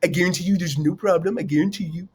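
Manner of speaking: a light take on Donald Trump's boastful tone; lightly voiced Trump, bragging with assurance; Trump impression. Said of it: "that's my Trump impression".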